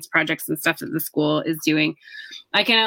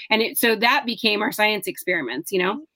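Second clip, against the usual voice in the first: voice giving out. Real, not acted. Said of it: "I'm losing my voice".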